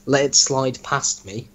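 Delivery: slow, puzzled repeat of the phrase; incredulous reread. Shown as a demonstration. Host rereading his friend's story line, slow and incredulous. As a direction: read it back to the writer as if it makes no sense.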